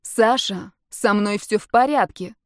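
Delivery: usual speaking voice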